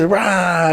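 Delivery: mock "rah" yowl; drawn-out animal cry; imitated cat screech. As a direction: imitate a screaming cat at talking volume. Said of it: "The cat is fucking screaming".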